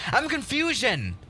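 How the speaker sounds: high, drawn-out mock bafflement; whiny exaggerated puzzlement; comic confusion. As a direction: play up being lost, slowly and high. Baffled by viewer's donation message.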